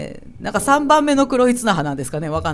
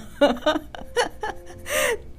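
high, softer trailing giggle; giggling laugh; 14 semitones higher, 6 dB quieter than usual. Real, not acted. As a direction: giggle at your own retort. Laughs after her retort. (高めの声でくすくす笑う)

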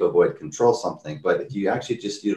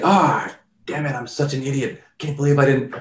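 a higher-pitched, embarrassed groan at himself; sheepish self-scolding; 5 semitones higher than usual. Retold or imitated. Stranger realises the door says pull, mildly embarrassed. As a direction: play the man who feels foolish.

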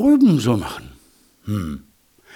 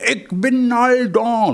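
high, drawn-out Low German call; 11 semitones higher than usual. Shown as a demonstration. Hedgehog coaches his wife what to call, in Low German. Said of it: "Das ist Plattdeutsch".

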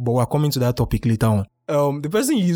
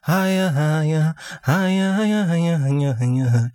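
stuck on a syllable; 4 semitones higher, much slower than usual. Shown as a demonstration. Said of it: "struggling to pronounce".

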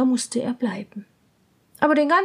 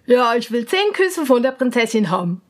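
swineherd voice; 4 dB louder than usual. Acted. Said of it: "sagte der Schweinehirt".

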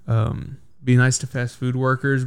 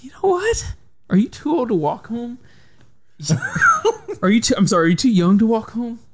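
much higher, squeaky mock-indignant voice; mock outraged parent; 10 semitones higher than usual. Dad retelling how he mocked his son, squeaky mock outrage. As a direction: squeak it out like a scandalised parent mocking his kid.

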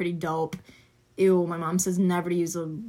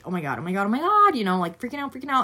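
too much caffeine; 3 semitones higher, faster than usual. Real, not acted. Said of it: "Sorry, I'm literally so jittery".

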